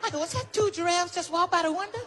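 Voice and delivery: high stunned whisper; shocked. Retold or imitated. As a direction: gasp it in disbelief. Shock at giraffes.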